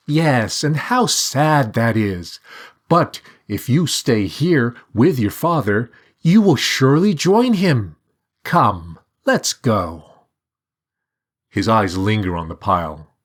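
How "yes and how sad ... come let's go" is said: much higher, chirpy talking bird; high sing-song bird. A narrator's reading. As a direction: voice the bird with light curiosity. Bird character voice.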